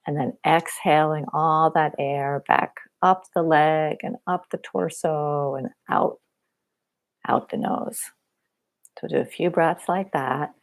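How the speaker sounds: unhurried body-scan guidance with long pauses; guided meditation. Real, not acted. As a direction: guide them gently through a body scan.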